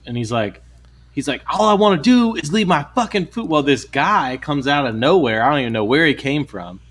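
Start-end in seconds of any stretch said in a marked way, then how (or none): 1.5-3.5 imitated customer pleading his case, higher; mock-agitated, high-pitched protest; crazy guy. Crazy customer protesting to the manager, mock agitation. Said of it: "there was a fucking crazy guy".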